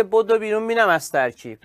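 mock Turkish accent. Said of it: "اف ای لهجهٔ ترکی داره".

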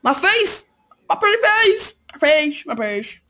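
high hammed-up wail over face; mock wailing. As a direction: wail about your pretty face.

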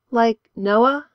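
quiet question. A narrator's reading. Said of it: "Amanda said quietly".

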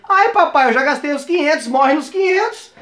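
mock dismay. Telling the buyer the money is spent, mock dismay. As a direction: play up the woe, stretching the ending.

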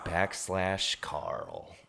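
slow whispered fine print. Acted. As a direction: whisper the web address slowly. Fake ad read whisper.

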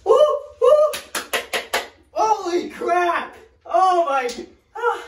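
very high squeals from the cold; in ice cold water. Real, not acted. Sinking into ice.

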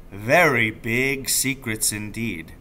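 slow, hushed and secretive; father teasing his son with a secret. Acted. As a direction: hold back, as if guarding a secret. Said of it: "veiled and secretive".

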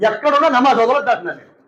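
ordinary delivery

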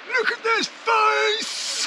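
high, slow mock voice; lightly voiced friend's teasing; imitating Bert. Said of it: "Bert outdoors saying".

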